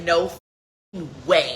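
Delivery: very slow, stretched disbelief; a friend stunned by the news; drawn-out disbelief. Retold or imitated. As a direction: drag each word out in shock. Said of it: "and he's like".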